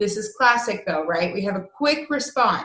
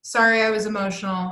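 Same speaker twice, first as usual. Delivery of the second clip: hasty, mildly louder brush-off apology; weak excuse; 4 dB louder than usual. Retold or imitated. Teacher imitating her own quick apology, brushing it off. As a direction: rush the sorry to skip the talk. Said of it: "really weak excuse".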